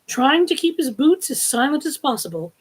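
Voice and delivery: lively storybook reading; animated read-aloud; story narration. A narrator's reading. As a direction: read the adventure to listeners.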